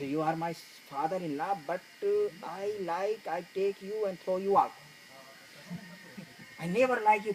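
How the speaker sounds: angry outburst. Retold or imitated. Son-in-law yells at father-in-law.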